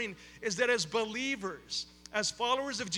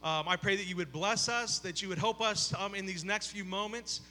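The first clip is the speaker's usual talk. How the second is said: heartfelt prayer, softening toward the close; earnest prayer. Real, not acted. Pastor praying over the congregation, earnest prayer.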